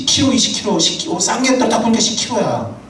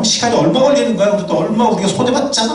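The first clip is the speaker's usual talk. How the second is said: mock scolding; 4 semitones higher than usual. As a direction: scold the husband over lost time. Voicing a nagging wife.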